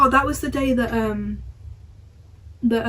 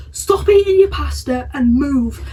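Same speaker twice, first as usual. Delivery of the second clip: slow, raised mock command; bossy order; 3 semitones higher, 5 dB louder, slower than usual. A cadet ordering her away from her pasta, slow raised voice. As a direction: bark it out slowly to move her along.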